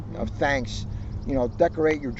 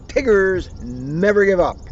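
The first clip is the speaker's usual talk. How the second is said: Tigger voice; 3 semitones higher, 3 dB louder than usual. Acted. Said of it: "Tigger said".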